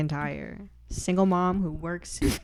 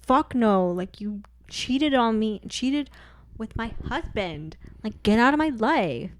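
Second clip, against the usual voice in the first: mock-indignant ex-wife retort; emphatic comic telling-off, loud at both ends; Reba; 3 dB louder than usual. Ex-wife refusing her husband's new wife, mock-indignant. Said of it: "And Reba's like".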